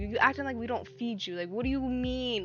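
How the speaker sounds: mock telling-off of a pet; getting mad. Owner scolding Lucifer over the lizard, mildly mad. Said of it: "over here getting mad at him".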